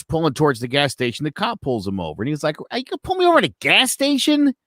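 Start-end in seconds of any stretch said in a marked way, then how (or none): 2.7-4.5 higher, quick incredulous question. Retold or imitated. Driver to cop pulling him over, incredulous.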